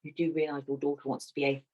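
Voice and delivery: hushed, confidential teacher, lightly imitated; retold whisper. Teacher leaning over to parents at parents' evening, hushed mock whisper. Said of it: "leant over and whispered quietly".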